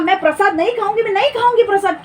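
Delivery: confident refusal of offering; firm refusal. Shown as a demonstration. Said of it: "अगर आप".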